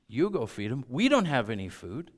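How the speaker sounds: mocking echo, rising sarcasm; sarcastic. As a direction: throw it back sarcastically. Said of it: "their sarcasm got the better".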